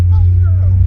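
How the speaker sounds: high, swooning damsel voice. Acted. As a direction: gasp it like a rescued heroine. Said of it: "a damsel".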